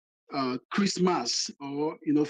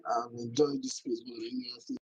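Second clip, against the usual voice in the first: choppy, breaking-up connection; glitching audio; 5 semitones lower, 8 dB quieter, slower than usual. Real, not acted. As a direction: voice cutting out on a bad line. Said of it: "your audio is bad".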